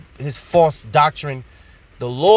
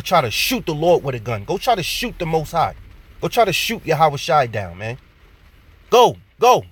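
getting excited; 3 semitones higher than usual. Real, not acted. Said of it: "Salaki, I'm getting excited, getting passionate".

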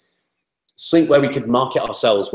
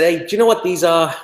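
shaky attempt at a New York accent, higher pitched; 8 semitones higher than usual. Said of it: "He was from New York".

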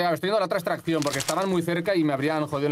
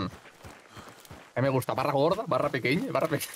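slow mocking drawl; slower than usual. Mimics friend's bar preference.

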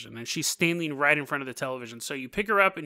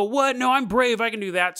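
higher, defiant bravado; cocky boys; 5 semitones higher than usual. Retold or imitated. Boys brushing off the river warning, higher cocky bravado. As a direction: scoff like a reckless kid. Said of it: "And people go".

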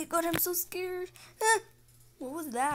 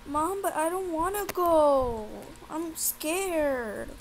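whiny scared son; 3 semitones higher, 5 dB louder, slower than usual. Acted. Son refuses to go to school.

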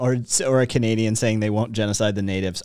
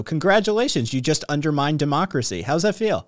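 sarcastic congratulations. Pretend. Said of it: "look at 'em, go".

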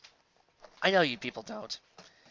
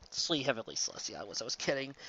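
stunned; 3 semitones lower, 9 dB quieter, faster than usual. Real, not acted. Shocked by fic's turn.

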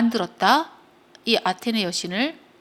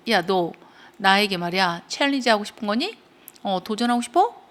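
mock-indignant questions with rising ends; angry challenge; 3 dB louder than usual. Goddess asks if she dares challenge her, mildly angry. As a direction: confront them with a restrained acted yell. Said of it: "라고 그녀가 yelled".

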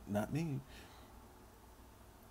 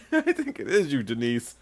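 laughing accusation. Real, not acted.

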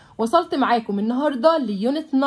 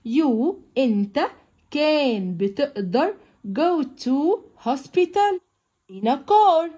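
slow textbook reading; much slower than usual. Shown as a demonstration. Teacher reading the lesson text aloud to pupils, slow and clear. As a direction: read each English phrase out slowly for the class.

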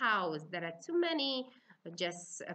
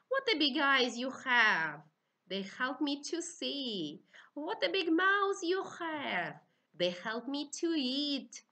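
storytelling voice; 3 semitones higher than usual. Shown as a demonstration. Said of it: "tell it together with fairy tale".

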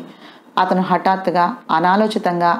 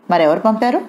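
raised, higher demand; shouted; 3 semitones higher than usual. Acted. Son shouts at family, fists clenched. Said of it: "పిడికిలు బిగించరిచాడు".

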